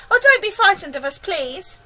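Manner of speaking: put-on high, eager boy's call. A narrator's reading. James calms the men below, calling out. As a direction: reassure them from far above. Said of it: "James called out".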